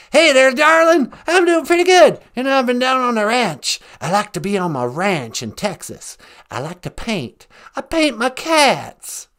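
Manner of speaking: folksy Texan caller voice; easy drawling ranch talk; lightly voiced Texan president; George W. Bush impression. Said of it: "George W. Bush".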